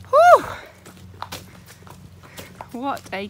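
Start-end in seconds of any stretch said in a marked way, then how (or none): 0.1-0.4 loud high panting whew; breathless whew. Real, not acted. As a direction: blow out hard after running. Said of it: "I'm out of breath".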